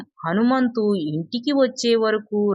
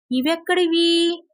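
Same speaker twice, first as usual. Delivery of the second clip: much higher, delighted question; thrilled surprise at seeing the diamonds; happy surprise; 8 semitones higher than usual. A narrator's reading. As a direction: gasp it out in glad wonder. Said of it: "అని ఆనందంగా అడిగాడు".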